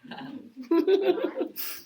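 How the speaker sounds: amused laugh after teasing. Real, not acted. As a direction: laugh lightly at your own teasing. Teasing a pupil about mishearing.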